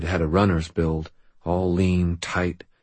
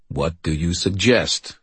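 slow, rumbling question; 2 semitones lower, slower than usual. Acted. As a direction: rumble it out slowly. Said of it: "rumbled the voice".

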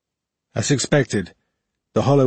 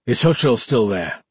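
put-on lightly slurred drunk question. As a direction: slur it a little, tipsy. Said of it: "Mackerel slurred".

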